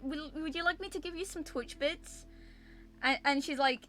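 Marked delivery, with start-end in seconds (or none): 0.0-2.3 high-pitched imitation of an offer; staff lady voice. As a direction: mimic her high, rising question.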